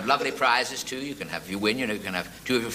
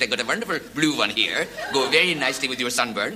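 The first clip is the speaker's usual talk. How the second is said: put-on Pakistani accent. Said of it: "speaks with a Pakistani accent".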